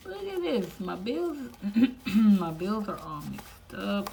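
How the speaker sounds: whiny complaint. Real, not acted. Showing viewers her jumbled bills, high whiny loud complaint. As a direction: whine like the mess is a personal insult.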